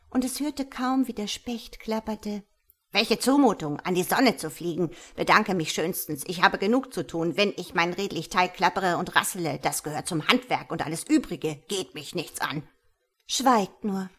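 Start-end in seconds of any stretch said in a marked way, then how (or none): 2.9-12.7 a lightly voiced busy craftsman, brisk and a bit louder; hint of a huffy woodpecker, quick; grumpy woodpecker. Busy woodpecker grumbles refusal. 13.2-14.1 a sharp, louder rebuke; mild indignant outburst. Acted. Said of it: "rief Christkind entrüstet".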